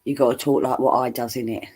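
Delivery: common British accent, deliberately dense phrasing; self-mocking common accent, run together; mock common English accent. Shown as a demonstration. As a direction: say it wrong on purpose in common English. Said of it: "purposely say the words wrong".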